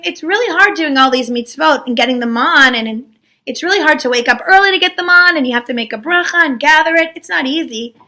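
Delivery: mildly whiny acted grumble; complaining. People complain to Moshe about gathering man, whiny. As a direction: pile up the grievances. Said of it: "So they complain a lot".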